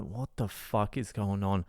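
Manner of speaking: low, hushed aside; soft, low-pitched bewildered remark; quiet disbelief. Retold or imitated. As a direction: say it under your breath, baffled. Baffled aside, then exasperated repeat.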